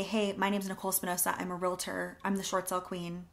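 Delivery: mocking a realtor who talks about herself; mock wrong intro. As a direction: show the self-centred opener you should avoid. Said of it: "I didn't say".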